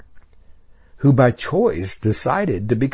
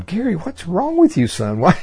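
Heavenly Father's voice; 7 semitones higher than usual. Retold or imitated. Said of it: "I think he's going".

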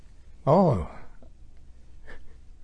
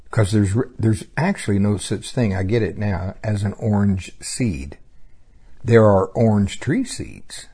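reading aloud. Real, not acted. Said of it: "let me read my little paragraph".

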